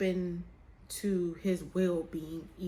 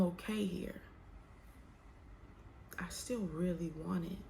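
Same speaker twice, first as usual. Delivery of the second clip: whispered confession; 8 dB quieter than usual. Real, not acted. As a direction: let the words drop to a whisper. Confessing self-deception.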